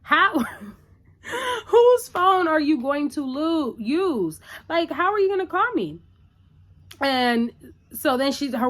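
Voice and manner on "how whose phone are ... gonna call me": mock-outraged realization with a laugh; baffled Carrie. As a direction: play it like the penny just dropped.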